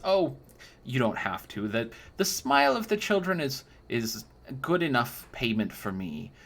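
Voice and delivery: put-on a doting old crone cooing over a young knight; sugary old lady flattering the customer; old crone baker. Old woman.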